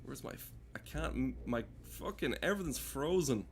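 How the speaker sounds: normal talking voice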